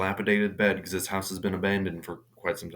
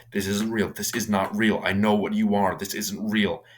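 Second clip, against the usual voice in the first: firm, slightly raised retort; said out loud; 3 dB louder than usual. Retold or imitated. Rose confronts the false mother aloud, firm denial. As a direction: state it outwardly to the creature. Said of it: "she just says it, like, out loud".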